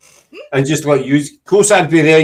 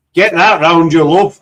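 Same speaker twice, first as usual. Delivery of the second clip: put-on a poor stab at a Nottingham accent; attempted Nottingham accent; 4 dB louder than usual. Scot trying his co-host's accent, failed Nottingham accent. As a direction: say it in a badly faked Nottingham accent. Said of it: "I can't do your accent".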